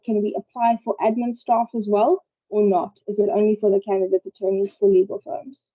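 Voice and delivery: muffled, like a hand over the mouth. Real, not acted. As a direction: speak through a covered mouth. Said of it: "it's a bit muffled".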